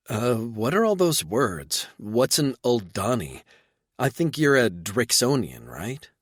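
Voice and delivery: confused woman firing questions; light bewildered female voice; lightly voiced woman. Reba confused.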